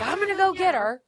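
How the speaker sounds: hammed-up heroic declaration with a laugh; mock-dramatic storming off, laughing; laughing mock outburst. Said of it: "he's like".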